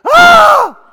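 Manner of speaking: loud high shriek of fright; sudden shocked shriek; mock scream. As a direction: scream as if you caught yourself naked. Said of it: "if you don't scream, I might".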